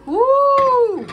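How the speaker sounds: loud, high-pitched "woo"; drawn-out celebratory whoop; excited whoop. Real, not acted. Cheering at her homemade bread.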